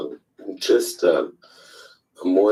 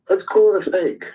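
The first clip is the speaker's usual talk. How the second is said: "Let's call it a fake" repeated much higher and louder, stress on call; emphatic repeat; 10 semitones higher, 4 dB louder than usual. Real, not acted. Angry caller on a group call insists, loud emphatic repeat. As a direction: push it up hard the second time.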